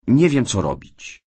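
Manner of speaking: high, upset and helpless; close to tears. A narrator's reading. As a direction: voice lifting as tears threaten. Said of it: "Cynthia rozpłakała się nieoczekiwanie".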